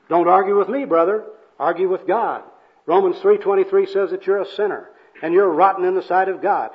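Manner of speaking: hammed-up scolding zeal; argumentative preaching. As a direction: shut down the argument like a street preacher. Acted evangelist argues with bum.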